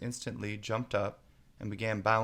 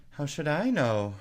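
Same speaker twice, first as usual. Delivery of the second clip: higher and louder, daring; bold retort; 6 semitones higher, 7 dB louder than usual. A narrator's reading. Alice talks back boldly to the queen. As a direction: surprise yourself with courage. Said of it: "surprised at her own courage".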